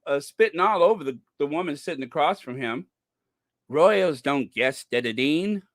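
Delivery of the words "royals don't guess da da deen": lightly mocked New Zealand twang, tongue-tied; Dan Wooten. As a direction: imitate someone stumbling in a New Zealand accent. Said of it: "he is frothing at the mouth".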